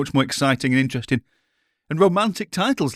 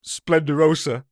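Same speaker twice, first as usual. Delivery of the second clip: put-on Italian accent; slower than usual. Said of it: "your Italian accent is absolutely".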